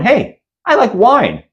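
airy and slow like nothing's wrong; nonchalant friend. Retold or imitated. Friend lounging in Carly's living room, high and casual.

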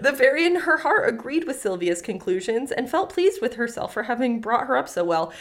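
story reading. Acted. Resumes reading the tale.

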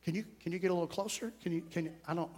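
barely voiced, as if someone can't hear you; whispering. Shown as a demonstration. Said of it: "whispering to me".

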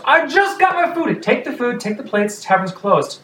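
high indignant complaint into firm orders; argue, then push everyone out; patron protest then order. Acted. Patrons argue, barkeep clears tavern.

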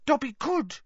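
high, halting elf voice; falter, unsure whether to dare; doubtful elf. A narrator's reading. Dobby considers criticising old masters, high and doubtful. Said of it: "he said doubtfully".

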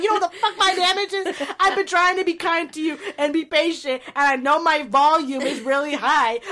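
high, heated tirade; ripping into someone. Retold or imitated. Sister rips into sister over the damage remark, heated high rant. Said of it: "I fucking rip into her".

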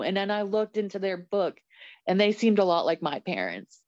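nervous, trembling voice; shaky with real emotion; shaking voice. Real, not acted. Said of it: "Sorry, I'm shaking now".

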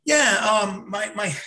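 confused ordering. Retold or imitated. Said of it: "And I'm like".

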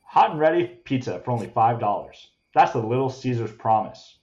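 smooth commercial voiceover; ad read. Acted. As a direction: sell it like a pizza ad. Parody ad read.

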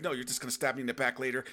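hurried scared rant; rushed fearful outburst; mock paranoid panic. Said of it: "You're like".

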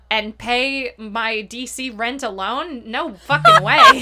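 building to a loud, indignant refusal; indignant outburst. Retold or imitated. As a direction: spit out the last words. Quoting a character's outburst.

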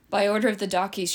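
calling out. Acted. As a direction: call it out as a command. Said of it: "she called out".

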